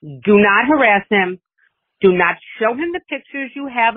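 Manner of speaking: mock stern daughter. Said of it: "Carly warned me. There were some rules".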